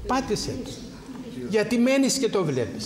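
high, pressing rebuke; urgent exhortation. Acted. Priest to the congregation, urging them to switch off. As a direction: push the flock to press the button.

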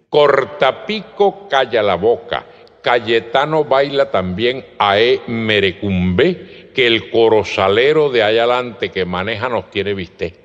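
retold warning with a sung lilt; singsong coded warning. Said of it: "Además cantado".

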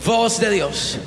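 crowd yelling. Retold or imitated. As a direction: shout it back like an angry crowd. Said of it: "la gente comenzó a gritar". (gritando como la multitud enojada)

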